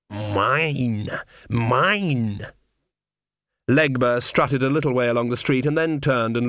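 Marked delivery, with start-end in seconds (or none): 0.1-2.5 slow, drawn-out possessive growl; growling cat-man. A narrator's reading. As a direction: growl each word like a cat guarding its catch. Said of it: "There was a growl from the alleyway".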